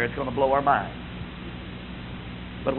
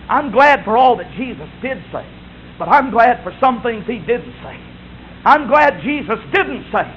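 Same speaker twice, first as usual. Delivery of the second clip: raised, emphatic pulpit delivery; full-force preaching; 6 semitones higher, 4 dB louder than usual. Real, not acted. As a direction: build toward the quoted command. Preacher builds to a climax.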